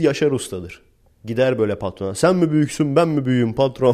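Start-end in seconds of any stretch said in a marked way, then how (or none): 2.1-3.9 a cocky, raised mock challenge to the boss; mock tough talk. Worker mouthing off to the boss, hammed-up bravado. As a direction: puff up like a swaggering foreman.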